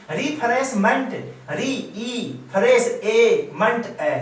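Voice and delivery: "रिफ्रेशमेंट" broken into री, फ्रेश, मंट, each echoed by its vowel; syllable breakdown. Shown as a demonstration. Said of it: "syllable ढूंढना बताता हूं".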